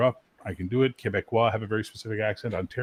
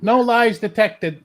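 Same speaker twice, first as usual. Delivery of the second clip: slow, high lie-detector voice; mock robot verdict; 9 semitones higher, 7 dB louder, much slower than usual. Friend joking about a lie detector's verdict, slow and robotic. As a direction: announce it like a machine.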